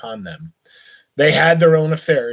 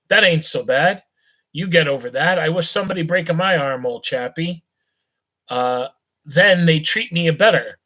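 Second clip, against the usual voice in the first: put-on a higher, lightly slurred drunken youth; jolly drunk rich boy, loose and cheerful; tipsy young gent; 3 semitones higher than usual. Rich drunk youth chats with a beggar, tipsy and friendly.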